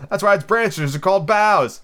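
high, loud, drawn-out explanation; crying out. A narrator's reading. Daisy explaining the tree's joke, loud high cry. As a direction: call it out slowly and high. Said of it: "cried the Daisy".

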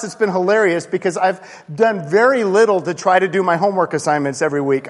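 usual speaking voice

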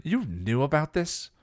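high, sharp accusing question; rounding on him. A narrator's reading. Buffy rounds on Giles over the robot. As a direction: turn on her watcher. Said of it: "Buffy rounded on her".

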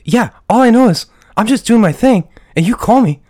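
mock indignant tough guy; hammed-up annoyed Mark.

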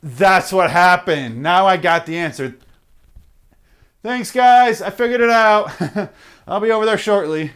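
high, pleased, hammed-up dimwit; mock proud gawker. Rubbernecker thanking the crash victims, high mock delight. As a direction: crow over a solved puzzle.

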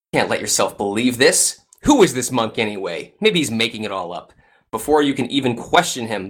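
suspenseful narration. A narrator's reading.

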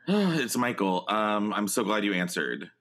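panting after a dash; winded from running to the phone; out of breath. Real, not acted. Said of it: "You sound like you were running".

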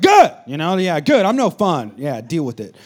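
loud, smug Good; proudly playing the no fun dad. Dad gloating to his mad kids, loud and smug. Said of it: "I'm like".

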